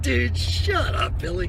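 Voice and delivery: high, drawn-out retold incredulity; amused disbelief. To buddy Billy about the spear tip, amused disbelief. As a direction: stretch it out in mock disbelief.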